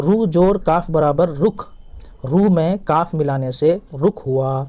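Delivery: "رو جوڑ کاف برابر رخ" spelled out slowly; teacher spelling slowly for pupils. Shown as a demonstration. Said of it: "را کے اوپر پیش ہے تو یہ رو ہے تلفظ میں". (آہستہ ہجے)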